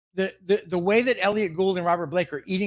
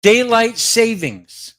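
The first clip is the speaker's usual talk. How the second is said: slow, louder, dragged-out rant opener; starting a fake rant, slow and louder; mock outrage; 4 dB louder, much slower than usual. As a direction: spit the words out like a grievance. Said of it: "but watch this".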